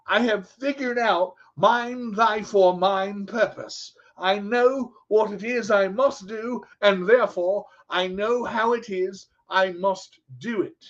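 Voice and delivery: slow, drawn-out proclamation; mock-grand speech. Speaker proclaiming his life's purpose to viewers, mock-grand. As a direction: declaim it slowly like a lofty vow.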